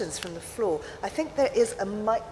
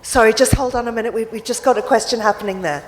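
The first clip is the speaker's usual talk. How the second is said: calling out; 8 dB louder than usual. Real, not acted. Chair calling out to the audience.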